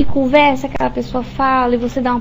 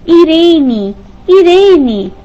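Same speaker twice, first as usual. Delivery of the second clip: loud, high calling of the name; anxious call; 5 semitones higher, 8 dB louder, much slower than usual. A narrator's reading. Mother-in-law calling the dazed Irene, loud and anxious. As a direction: call her back urgently. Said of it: "Apelou aflita".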